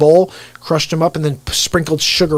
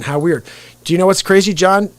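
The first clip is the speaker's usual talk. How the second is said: usual speaking voice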